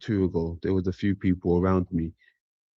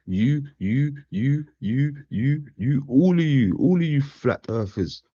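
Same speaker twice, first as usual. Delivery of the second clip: high, teasing jab at each one; playful higher-pitched ribbing; mock taunt; 6 semitones higher than usual. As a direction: poke fun, pointing them out. Mock taunting flat earthers.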